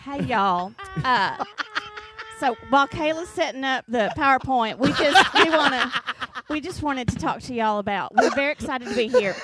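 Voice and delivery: put-on bubbly sorority girl pitch; chirpy white sorority girl.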